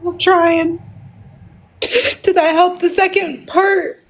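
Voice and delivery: trying to talk through tears; real emotional. Real, not acted. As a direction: pull yourself together while tearful. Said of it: "I said I was gonna get emotional".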